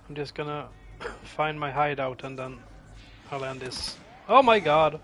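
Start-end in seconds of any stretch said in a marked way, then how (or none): 4.3-5.0 panicked high screaming; terrified horror victim. Real, not acted. Being killed in horror game.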